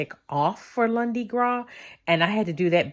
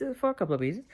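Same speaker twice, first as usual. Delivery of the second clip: softer, trailing repeat; 3 semitones higher, 7 dB quieter, much faster than usual. Real, not acted. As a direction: drop the volume on the repeat.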